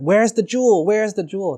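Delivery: high-pitched insistent interrogation; acted torturer's pressing question; angry demand. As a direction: demand an answer, voice jumping up.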